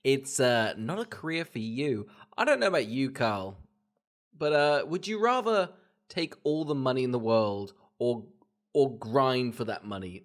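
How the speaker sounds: loud, laughing mock prince. Prince mocking Camilla's dressmaking, loud and laughing. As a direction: sneer at her career through laughter.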